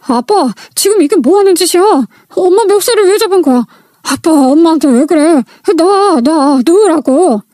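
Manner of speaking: lightly voiced distressed son; upset child pleading. Kids pull father off mother.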